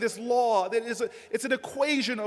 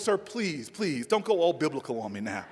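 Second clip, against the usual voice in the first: exasperated agent; 10 semitones lower, 6 dB quieter than usual. Retold or imitated. Agent voiced, lower.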